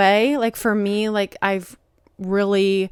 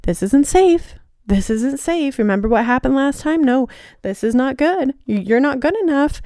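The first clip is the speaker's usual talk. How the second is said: anxious shadow voice; 3 semitones higher than usual. Retold or imitated. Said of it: "my shadow came back up".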